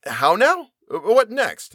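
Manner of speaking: a narrator's mock outburst of surprise; astonished exclamation. A narrator's reading. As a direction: sputter out the disbelief. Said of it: "exclaimed I".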